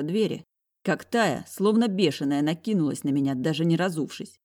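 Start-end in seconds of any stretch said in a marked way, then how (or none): none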